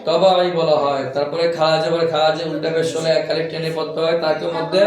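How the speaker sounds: low, level sing-song recital; rote recitation. Shown as a demonstration. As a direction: recite memorised rules in a monotone. Recites memorised rules in monotone.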